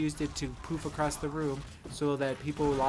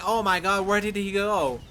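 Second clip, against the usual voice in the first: loud, alarmed asking; panicked; 5 semitones higher, 7 dB louder than usual. Retold or imitated. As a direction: look around in a panic. Confused enemies.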